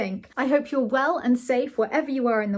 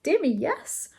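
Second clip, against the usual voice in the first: airy, higher-pitched offhand remark; careless; 6 semitones higher than usual. A narrator's reading. The Earl on his intimacy with the Prince, careless. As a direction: toss it off carelessly. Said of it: "remarked the Earl carelessly".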